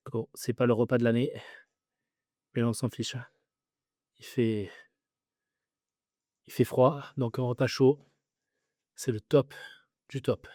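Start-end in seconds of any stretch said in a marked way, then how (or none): 4.2-10.5 mouth full. Real, not acted. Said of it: "m'en voulez pas si je parle la bouche pleine".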